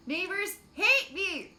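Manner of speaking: loud, slow mock ad shout; ad announcer. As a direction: pitch it like a clickbait ad. Mock ad slogan.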